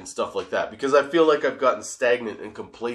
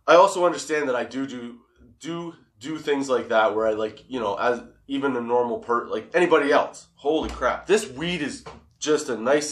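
stoned. Real, not acted. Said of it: "my lips can't catch up to my thoughts".

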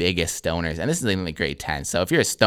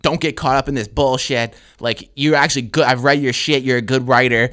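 raised, emphatic retold lecture; lecturing teacher; 4 semitones higher, 4 dB louder than usual. Teacher telling a capable student off kindly, emphatic. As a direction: press the point as an exasperated teacher. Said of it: "she just starts going in on me".

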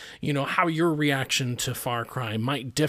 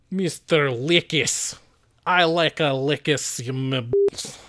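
mock Australian accent. Clowning with the listener's name in accent.

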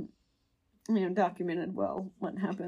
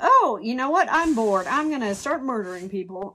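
voiced killer thought; 3 semitones higher, 6 dB louder than usual. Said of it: "voicing the killer's thought".

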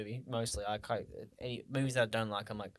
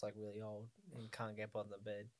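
teary; 4 semitones lower, 15 dB quieter than usual. Real, not acted. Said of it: "you're tearing up right now".

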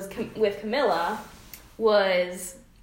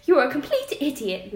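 mock posh British, a bit higher; British accent; 5 semitones higher, 3 dB louder than usual. Shown as a demonstration. Reading Camilla's tease aloud, mock posh British. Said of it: "should I read it in an accent".

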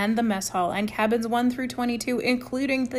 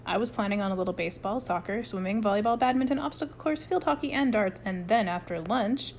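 deadpan list. Acted. Rudy's mocking list of activities.

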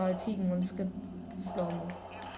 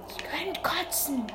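slow whispered disgust; whispered groan; 7 semitones higher, slower than usual. Real, not acted. Stuck gamer whispering his frustration. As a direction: breathe it out, fed up.

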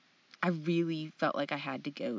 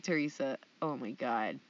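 soft exasperation; 4 semitones lower, 6 dB quieter than usual. Retold or imitated. Mom stifling laughter.

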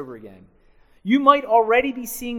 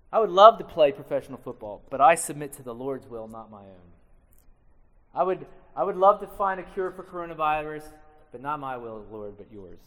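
humble submission; 5 semitones lower than usual. Shown as a demonstration. Preacher modelling a humble prayer, gently. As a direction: show yielding your plans to the Lord. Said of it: "This is how I would say it now".

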